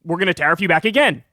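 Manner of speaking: mock a cocky retort from China; China's retort. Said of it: "Then China goes".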